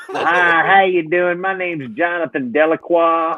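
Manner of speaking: high, hammed-up bad Southern drawl; mock Southern accent. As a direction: put on a botched French-sounding Southern accent. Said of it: "then he talked with a Southern accent".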